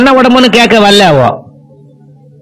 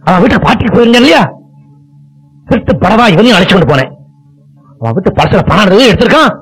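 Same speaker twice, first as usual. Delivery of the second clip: retold rant of disgrace; 3 semitones higher than usual. Father rants to his wife about disgrace.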